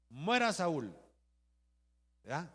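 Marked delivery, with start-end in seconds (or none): 0.1-0.9 loud mock battle cry; acted rallying cry. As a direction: call it out like one of the rebel companions. Companions call for Saul's death.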